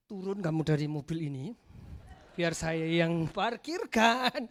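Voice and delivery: low, drawn-out order through mock restraint; re-enacted forced calm, slowing right down; temper held back. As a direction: swallow the anger and stretch the words out. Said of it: "pada saat saya mau naik darah".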